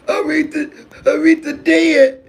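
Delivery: high, wailing slow mock cry; hammed-up sob of grief; mock sobbing. Son wailing to mama that a singer died, hammed-up high cry. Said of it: "the way I was crying".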